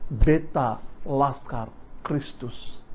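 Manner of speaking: slow, simple avowal of faith; retold young boy answering plainly, word by word; innocent declaration. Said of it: "dengan polos berkata gini".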